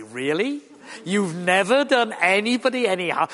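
sceptical challenge as a question; blunt disbelief. Retold or imitated. Blunt Yorkshireman challenges someone claiming innocence, lightly acted disbelief. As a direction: throw the claim back, bluntly incredulous. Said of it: "being a blunt Yorkshireman, I always say".

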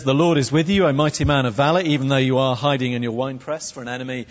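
mock-solemn angel greeting with a sarcastic tail. Angel recruits a man hiding in a winepress, sarcastic. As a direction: proclaim it, then rattle off the sarcastic tail. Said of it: "Sorry, not sarcastic".

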